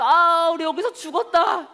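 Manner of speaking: slow, high wail of despair; despairing cry. Acted. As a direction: cry out that all is lost. People panicking at the sea.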